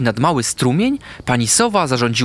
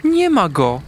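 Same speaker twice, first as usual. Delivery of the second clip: dismayed whisper; 6 semitones higher, slower than usual. A narrator's reading. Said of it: "wyszeptała".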